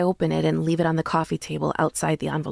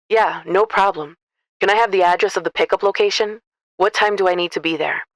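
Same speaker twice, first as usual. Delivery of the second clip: gentler trucker voice; 5 dB louder than usual. A narrator's reading. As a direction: reassure her gently like a kind trucker. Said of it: "His voice has gotten softer".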